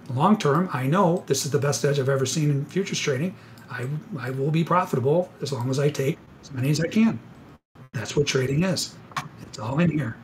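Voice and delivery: winded while talking; out of breath. Real, not acted. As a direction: talk short of breath. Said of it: "You're lucky I'm out of breath right now".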